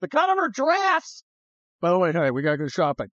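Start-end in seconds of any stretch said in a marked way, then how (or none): 0.0-1.2 high, hammed-up approval; mock admiration. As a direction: play an admirer, pitched well up. Repeats the imagined admiration.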